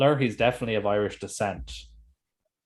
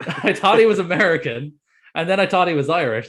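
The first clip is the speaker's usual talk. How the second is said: laughing disbelief; 8 semitones higher, 7 dB louder than usual. Real, not acted. Laughing at own confusion.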